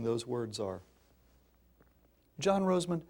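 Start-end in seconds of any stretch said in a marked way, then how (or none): 2.4-3.0 mother calmly saying his name; calm, unhurried address. Retold or imitated. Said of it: "very calmly".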